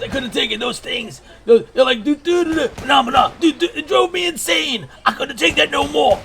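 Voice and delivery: shrill-pitched war veteran puppet ranting; Brock Maverick voice. Acted. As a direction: crank it way up into a frantic old pilot. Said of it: "That's how Brock Maverick sounds".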